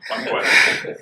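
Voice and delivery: joking stage whisper. Pretend. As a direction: breathe it out, no voice. Repeats phrase, then whispers it.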